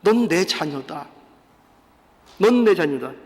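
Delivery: low, measured reassurance as reproof; grave, low-pitched reminder; gentle rebuke. Acted. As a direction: reprove by calmly affirming, letting it sink in. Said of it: "이게 꾸짖으시는 거라니까요".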